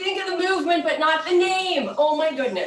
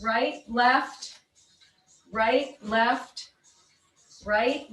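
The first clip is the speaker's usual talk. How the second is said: aerobics instructor. Acted. Counts and cues the steps.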